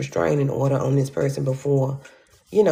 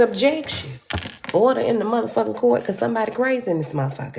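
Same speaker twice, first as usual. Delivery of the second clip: mock courtroom outburst; 6 semitones higher, faster than usual. Shouting in court.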